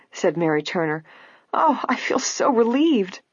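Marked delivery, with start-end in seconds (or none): 1.5-3.2 high, slow, relieved exclamation; grateful, drawn-out high pitch. A narrator's reading. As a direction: let the relief pour out. Mary Turner relieved at inheritance.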